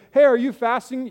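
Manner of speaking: exaggerated prying ask; mock nosy friend. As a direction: pop the question like a friend catching you out. Same question, acted big.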